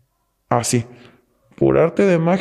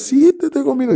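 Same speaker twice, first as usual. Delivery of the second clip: frightened friend; 12 semitones higher than usual. Retold or imitated. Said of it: "Y otra vez".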